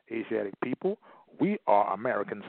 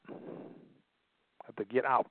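drawn out very slowly and softer; slow, soft repeat; 7 dB quieter, much slower than usual. Shown as a demonstration. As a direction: let the words sink in, slowly and quietly. Repeated phrase, drawn out softly.

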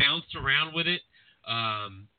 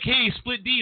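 imitating an excited fan, pitched much higher; a mock fan call from the crowd, high and eager; 11 semitones higher, slower than usual. Fans spotting the podcaster at ringside, a high excited call. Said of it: "people were like".

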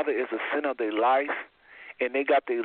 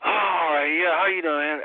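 sleepy; slower than usual. Shown as a demonstration. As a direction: answer the phone just a little sleepy. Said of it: "if I sound like this when you call me".

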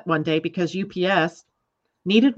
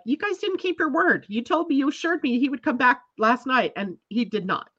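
higher-pitched mock scolding; retold complaint; 5 semitones higher than usual. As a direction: tell them off for breaking their word. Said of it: "I was really upset".

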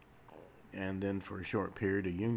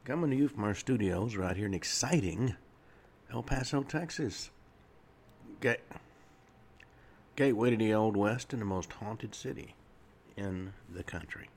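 lively radio host intro, punching key words; announcer-style station greeting, lightly played up; radio show opening; 4 dB louder than usual. Real, not acted. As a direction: welcome listeners to the show with emphasis. Opens his radio show.

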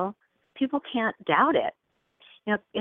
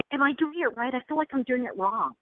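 high, softer, second-guessing voice; anxious student; 5 semitones higher, 4 dB quieter than usual. Acted. Student checking with the teacher, mock anxious. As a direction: imitate a student fretting over getting it right. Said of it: "how much people, uh, want to go".

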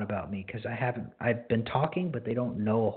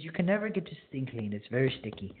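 put-on Mennonite accent; 2 semitones higher than usual. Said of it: "I make a really bad, um, Mennonite accent".

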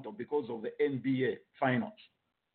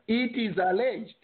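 "alleged" spelled out slowly and deliberately; slow, higher-pitched, underlining "alleged"; stress on ALLEGED; 8 semitones higher, 3 dB louder than usual. Real, not acted. Panelist flags unconfirmed showground sale rumour, heavy stress on "alleged". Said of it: "Underline the word alleged".

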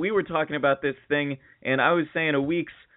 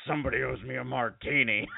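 laughing made-up quote; 5 dB quieter than usual. Pretend. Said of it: "He didn't say that".

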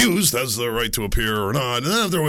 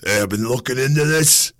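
raspy lawyer voice; gravelly mock attorney; smoky attorney voice; 3 dB louder than usual. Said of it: "I'll just go with the smoker thing".

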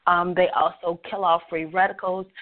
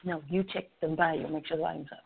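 softer, off-mic request; quiet aside; 7 dB quieter, much faster than usual. Real, not acted. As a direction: speak aside to the helper quietly.

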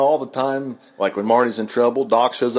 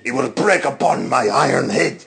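a hint of a comic Russian accent; lightly done Russian accent; mock Russian accent; 2 semitones higher than usual. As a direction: tell a sad Siberia tale in fake Russian. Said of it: "be both Italian and Russian".

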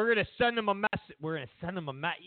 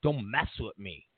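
tough guy Obama; 6 semitones lower than usual. Retold or imitated. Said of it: "you know, like".

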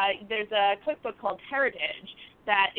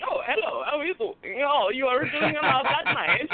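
hammed-up Italian accent; 3 semitones higher than usual. Guest imitating the vacation kidnapper, hammed-up Italian accent. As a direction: play the movie Italian charmer, badly. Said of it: "he's like the Italian guy from every".

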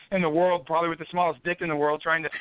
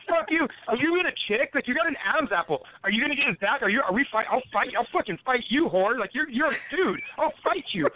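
higher, heated mock challenge; retold challenge; 4 semitones higher than usual. Challenging the hooker in the alley, heated and raised. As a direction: pick a fight, voice pushed up. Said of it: "I'm like".

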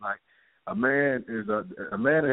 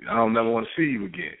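angry son; 6 semitones higher, faster than usual. Retold or imitated. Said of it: "the son says".

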